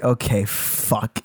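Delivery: low, soft, drawn-out acceptance; slow resignation. Retold or imitated. Storyteller facing the hobo's screeching, quietly resigned. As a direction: take it in slowly, under your breath.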